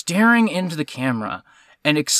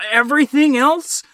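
raised, emphatic complaint; exasperated; 5 semitones higher, 3 dB louder than usual. Real, not acted. Film watcher answering back to a long monologue, exasperated. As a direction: vent it with rising frustration.

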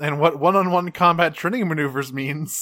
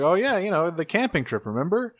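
higher-pitched, sing-song casual reminder; breezy reminder; 6 semitones higher than usual. Retold or imitated. Rad reminds Alexis of the camping trip, breezy. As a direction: remind them lightly, pitched up.

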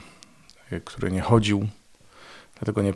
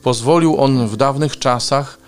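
raised, emphatic reader's proclamation; crying out to crowd; 4 semitones higher, 8 dB louder than usual. A narrator's reading. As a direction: project an urgent appeal, loudest at the start. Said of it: "krzycząc". (donośne wołanie do tłumu)

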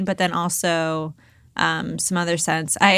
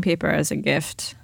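whispering; 4 semitones lower, 5 dB quieter than usual. Real, not acted. Teasing aside.

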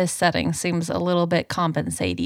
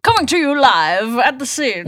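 newscaster voice; 4 semitones higher, 4 dB louder than usual. Pretend. Mock newscaster bit.

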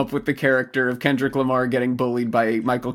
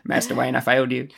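lightly voiced British butler; Michael Caine voice; 4 semitones lower than usual. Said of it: "In his Michael Caine voice".

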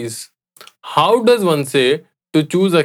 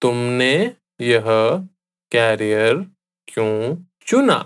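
slowly; 2 semitones lower, much faster than usual. Shown as a demonstration. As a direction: question broken up word by word. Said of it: "I'll say it again slowly".

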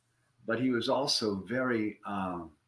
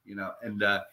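normal talking voice

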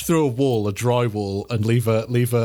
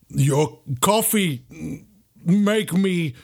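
slow brute growl rising higher; barbarian; 6 semitones higher, much slower than usual. Acted. Barbarian staggering back from the owner, slow brute voice. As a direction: grunt it out word by word. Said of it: "I'm like".

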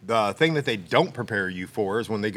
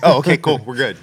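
mock casual; 4 semitones higher, 11 dB louder than usual. Mock reaction to friend's surprise.

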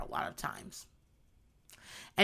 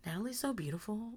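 laughing mock compliment; 16 dB quieter than usual. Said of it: "they were like".

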